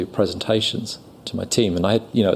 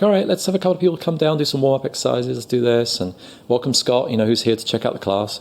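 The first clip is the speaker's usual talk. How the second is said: quick, higher teacher voice; acting teacher; 4 semitones higher than usual. Teacher opening the class, lightly voiced, quick and higher. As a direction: rattle it off like a showy teacher. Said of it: "he starts the class and he's like".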